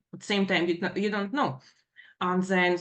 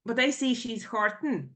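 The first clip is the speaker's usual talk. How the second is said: normal talking voice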